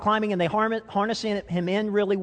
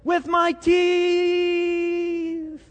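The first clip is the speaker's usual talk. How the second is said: very slow, higher, through clenched teeth; hanging on by his teeth; 11 semitones higher, 3 dB louder, much slower than usual. Retold or imitated. Jim answering from the rope, very slow through clenched teeth. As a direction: squeeze it out with the jaw locked. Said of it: "And he said".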